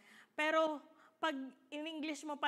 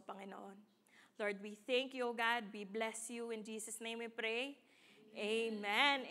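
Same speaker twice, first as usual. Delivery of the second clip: prayer; 2 semitones lower, 4 dB quieter than usual. Real, not acted. Preacher praying to God for the congregation, prayerful. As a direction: pray gently and steadily to God.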